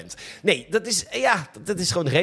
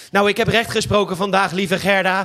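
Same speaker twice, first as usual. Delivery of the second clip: pompous judge; 5 semitones higher than usual. Acted. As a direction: play it as a pompous grand judge. Mock judge bragging to wife.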